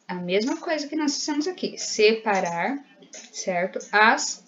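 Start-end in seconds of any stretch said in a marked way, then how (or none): 1.8-2.8 slow "Separar", se... pa... rar; "Separar" spelled out in slow beats; drawn-out syllables. Shown as a demonstration. Teacher models separating by saying it.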